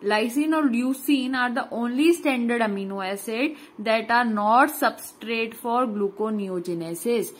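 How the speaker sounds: "Lysine और leucine" read slowly and evenly like dictation; drawn-out note reading. Acted. Reads English note slowly. (धीरे-धीरे लिखवाते हुए पढ़ना)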